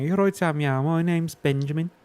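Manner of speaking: hammed-up Brummie accent taking the mick; slow jokey Brummie accent; mock Brummie accent. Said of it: "the Brummie accent we put on".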